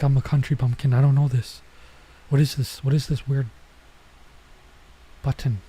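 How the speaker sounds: put-on loud, flustered little girl voice; confused country bumpkin. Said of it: "She's like, all bewildered".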